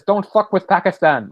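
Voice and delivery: lightly faked Arabic accent; fake Arabic accent. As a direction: imitate her awful put-on Arabic accent. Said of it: "doing a fake Arabic accent".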